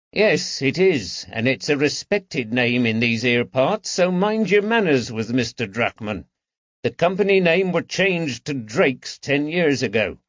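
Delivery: lightly voiced London shopkeeper, mildly stern; a hint of a prickly old tradesman defending his master. Shopkeeper rebukes Woods.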